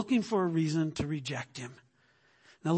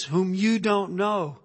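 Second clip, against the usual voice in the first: slow, weighty stress on "you"; slow right down and land on "you"; emphatic quote; slower than usual. Shown as a demonstration. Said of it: "don't miss the words".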